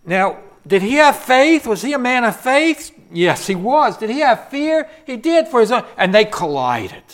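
high, loud preacher's questions; preaching. Acted. Preacher asking the congregation about Elijah's faith, loud. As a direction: hammer each question home.

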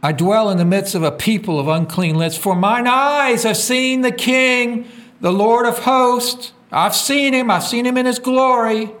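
high, sustained preaching voice; exalted proclamation. Acted. Isaiah declaring he has seen the King, exalted proclamation. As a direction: proclaim it high, drawing out the words.

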